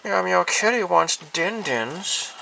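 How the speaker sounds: put-on high, slow baby-talk kitty voice; cute kitty voice. Vlogger voicing her toy kitty, high baby talk. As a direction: coo it like a fussy little cat.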